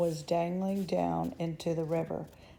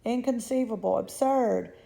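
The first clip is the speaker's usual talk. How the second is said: emphatic dismissal; 3 semitones higher than usual. Acted. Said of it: "cried Mister Wonka".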